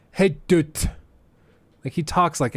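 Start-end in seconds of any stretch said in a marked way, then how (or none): 0.1-0.9 a lightly voiced toddler saying dude; toddler imitation. The speaker's son copying XQC, lightly voiced toddler. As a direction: sound like a one-year-old copying. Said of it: "He'll go".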